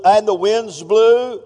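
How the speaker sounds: slow booming preacher line; slow dramatic boom. Shown as a demonstration. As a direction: make the wind sound big. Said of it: "that's just a breeze".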